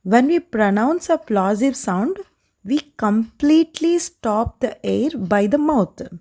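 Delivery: very slow, spelled-out English; deliberately slow for the students; slow teaching. Shown as a demonstration. Teacher slowly restating the rule in English, very slow. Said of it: "English restatement slowly".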